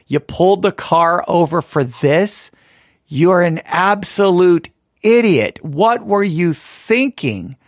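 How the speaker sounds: slow, incredulous mock scolding, word by word; indignant passengers. Annoyed passengers berate the driver who pulled over, slow mock indignation. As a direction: drag out each word in mock outrage at the driver. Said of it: "Everybody's looking at me going".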